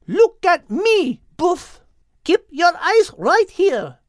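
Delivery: high, slow, firm character voice; firm command. A narrator's reading. Henriette firmly keeping Don Pedro's eyes on her. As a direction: hold his gaze, slow and firm.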